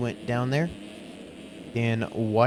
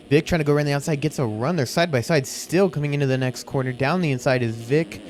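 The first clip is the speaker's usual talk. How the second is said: fast, rising live race call; motorsport commentator. Acted. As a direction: call the battle with building excitement. Heated battle, live race call.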